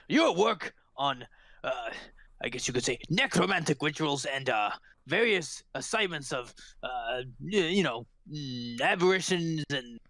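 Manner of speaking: halting formal praise; admiring constable. Acted. Constable shaking hands over necromantic work, halting formal admiration. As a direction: grope formally for polite words.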